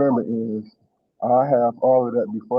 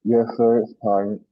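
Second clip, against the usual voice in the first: muffled. Real, not acted. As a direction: voice muffled by a bad mic. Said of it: "You muffled there".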